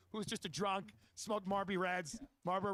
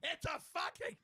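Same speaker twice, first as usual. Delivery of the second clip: high, strained yell without real volume; mock scream; 7 semitones higher, slower than usual. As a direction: imitate a coworker screaming, held back. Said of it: "scream at the secretary".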